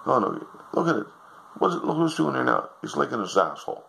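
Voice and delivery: high, shrill-pitched complaining wife; nagging wife. Acted. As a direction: whine it like a disgusted wife. Wife demands dog go.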